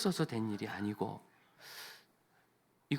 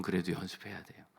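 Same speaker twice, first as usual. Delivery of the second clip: ordinary delivery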